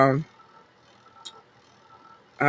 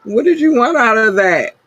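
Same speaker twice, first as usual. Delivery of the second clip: mock exasperation; 8 semitones higher, 4 dB louder than usual. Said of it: "I said".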